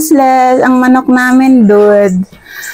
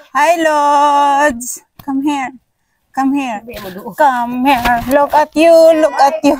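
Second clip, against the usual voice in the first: higher-pitched cooing to a little one; 4 semitones higher, slower than usual. Real, not acted. Calling the little nephew over, baby talk.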